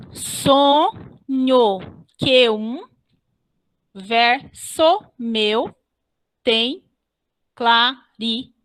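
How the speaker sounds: "Sonho, Q um, verso meu tem clari" one slow beat at a time; deliberate scansion with "Q um" as one beat; counting syllables aloud. Shown as a demonstration. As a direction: pause after every syllable, stopping on the "ri" of "clari". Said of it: "se eu for contar aqui".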